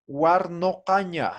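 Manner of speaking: "warnokaña" with clear open o before k; careful model pronunciation. Shown as a demonstration. Teacher telling students how to say it, "warnokaña" pronounced carefully. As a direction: sound out "warnokaña" as a model word. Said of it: "vamos a decir".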